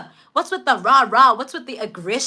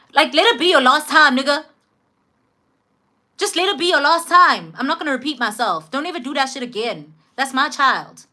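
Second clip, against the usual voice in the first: dad's stern warning; 3 semitones higher than usual. Retold or imitated. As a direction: lay down the law, raising the voice on the first lines. Dad warns the man off.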